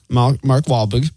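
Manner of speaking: put-on halting, drawn-out stab at a Boston accent; fumbled Boston accent on the name; attempted Boston accent. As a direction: try "Wahlberg" with a softened Boston R. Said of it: "can't even do that in the accent".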